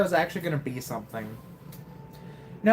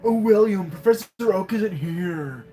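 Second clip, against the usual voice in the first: lightly voiced rival kid; 3 semitones higher than usual. Voices rival dialogue again.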